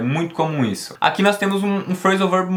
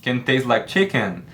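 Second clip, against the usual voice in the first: slow model phrase; slower than usual. Shown as a demonstration. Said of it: "Perceba novamente".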